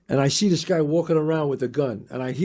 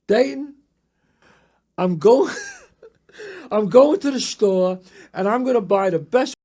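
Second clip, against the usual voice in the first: excited shout; 5 semitones higher, 5 dB louder than usual. Retold or imitated. Excited shout to friend about vacuum.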